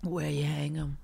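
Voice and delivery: teasing whispered question. Real, not acted. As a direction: whisper it slyly.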